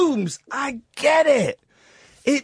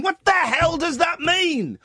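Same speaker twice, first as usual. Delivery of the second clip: exasperated shout; 4 semitones higher than usual. Real, not acted. Ranting at the lyric.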